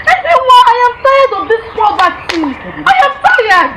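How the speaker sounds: high, loud fed-up cry; exasperated outburst. Acted. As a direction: burst out, sick of being poor. Wife despairing about poverty.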